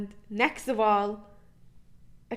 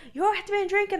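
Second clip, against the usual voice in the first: accusing ma; 10 semitones higher, faster than usual. Retold or imitated. Ma accusing the teens.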